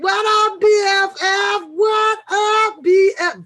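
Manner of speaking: high, loud call to a best friend; excited shout-out. Real, not acted. Calling out to arriving best friend.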